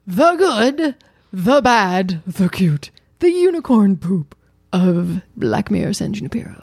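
slow, drawn-out announcer read of the title; show title announcement. Shown as a demonstration. Redoing the show intro her wife requested, in slow announcer style. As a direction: savour each part like a show opener. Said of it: "so say it again".

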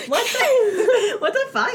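high, loud and breaking into laughter; laughing disbelief. Retold or imitated. Dancer retelling the choking customer to her co-host, laughing in disbelief. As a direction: retell your shocked reaction through helpless laughter.

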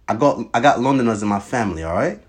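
poorly imitated London accent; bad British accent. Claiming Londoners in the family, badly faked British accent. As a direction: fake a British accent, not very well. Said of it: "You suck at this accent".

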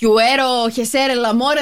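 repeating Spanish. Retold or imitated. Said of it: "να είναι τα ισπανικά".

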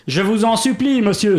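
pleading hamster. Acted. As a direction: plead politely with the jester. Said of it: "supplia le hamster".

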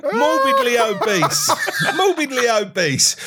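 slow, laughing through words; half laughing, half wailing. Real, not acted. Laughing at being called fat.

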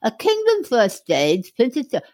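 dramatic Shakespeare recitation; reading aloud. Shown as a demonstration. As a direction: declaim it like a stage speech. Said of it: "a short passage".

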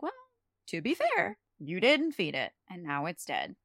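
calmly pointing out the facts, retold; matter-of-fact. Spike to Drusilla about the dead bird, matter-of-fact. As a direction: state it plainly, without yelling. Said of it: "just pointing out clear facts".

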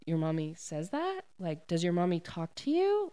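gently probing, pitch lifting on the question; quizzing. Retold or imitated. Lowen asks the boy about his mommy, quizzing him. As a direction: question a child with mild suspicion. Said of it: "quizzing him a little bit".

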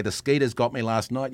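broad outback Australian talk; country Australian accent. Shown as a demonstration. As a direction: demonstrate rural Australian speech. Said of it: "this is how you talk Australian".

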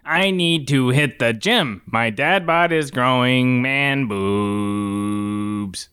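slow, stilted robot voice. Pretend. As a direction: speak like a slow binary machine.

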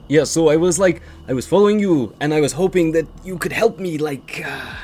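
halting, scattered character voice; hesitant tiefling. Acted. Tiefling asks the party to help her fight, halting. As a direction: grope for each phrase in an odd voice.

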